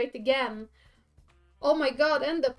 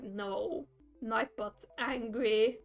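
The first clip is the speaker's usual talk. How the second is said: slow bot voice; 3 semitones lower, much slower than usual. Retold or imitated. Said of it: "it's like".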